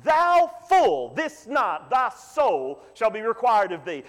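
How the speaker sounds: mild mock voice of God rebuking the farmer; God's judgment. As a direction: deliver it like a verdict from heaven. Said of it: "And God that night said".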